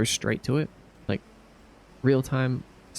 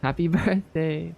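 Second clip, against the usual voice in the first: laughing; 4 semitones higher than usual. Real, not acted. Laughs mid-greeting.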